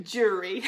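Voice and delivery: "jury" for jewelry, no L; requested dialect word. Shown as a demonstration. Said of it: "she said, "Say".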